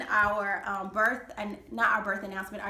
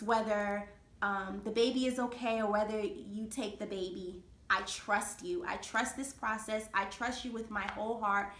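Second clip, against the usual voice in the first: trust spoken gently. Retold or imitated. Prayer to God in ER.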